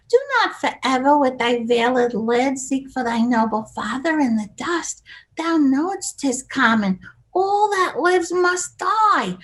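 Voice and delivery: Shakespeare in a spoofy Brooklyn accent; Edith Bunker. Shown as a demonstration. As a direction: Brooklyn housewife queen, swooping up on key words. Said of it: "So I did it like this".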